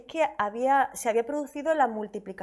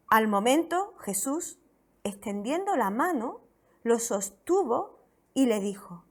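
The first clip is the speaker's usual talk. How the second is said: measured, solemn Bible reading; slow, deliberate reading of the Gospel; scripture reading. Acted. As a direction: read the passage aloud to the church. Reads scripture aloud to congregation.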